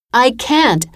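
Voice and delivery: put-on a frightened child's gasp between waves. A narrator's reading. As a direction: blurt it out of breath, struggling to stay afloat. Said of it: "I gasped".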